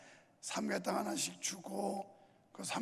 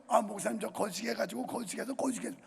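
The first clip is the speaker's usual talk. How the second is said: Jeolla dialect; faster than usual. Retold or imitated. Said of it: "말만 하면 거시기로 시작해서".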